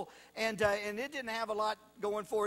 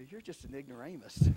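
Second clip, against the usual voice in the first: laughing blunt translation; 8 semitones lower than usual. Retold or imitated. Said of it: "the polite way of saying".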